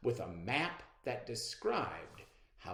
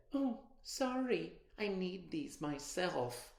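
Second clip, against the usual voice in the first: fake sorry; 7 semitones higher than usual. Abby sneering.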